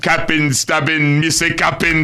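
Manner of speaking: mock Jamaican patois rap; Jamaican accent. Host mocking the rapper's verse, put-on Jamaican accent. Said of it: "he puts on a Jamaican accent".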